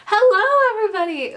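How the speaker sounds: loud high second take; restarting the line. Acted. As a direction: call out the hello again. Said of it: "Take two".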